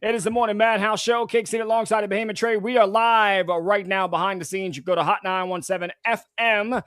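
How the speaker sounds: upbeat DJ station plug; radio host intro. Acted. Host opening the morning show for listeners, DJ read.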